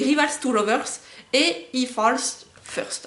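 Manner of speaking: English tropes read slowly with a French accent; lent, accent français. Real, not acted. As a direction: spell out Rivals to Lovers and He Falls First carefully, French accent. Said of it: "pareil pour l'accent anglais".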